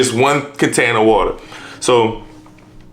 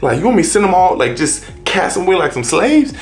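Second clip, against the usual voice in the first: higher-pitched, mildly indignant protest; upset father; 5 semitones higher than usual. Acted. Abraham objecting to sending his child away, upset. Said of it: "that really upset him".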